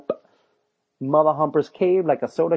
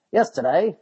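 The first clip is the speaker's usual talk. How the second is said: mock announcer; 4 semitones higher, 5 dB louder than usual. Shown as a demonstration. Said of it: "uh, that's not how we talk".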